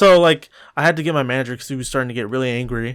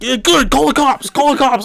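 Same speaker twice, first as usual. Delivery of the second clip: much higher mock taunt; taunting customer; 11 semitones higher, 5 dB louder than usual. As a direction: dare them, pitched way up.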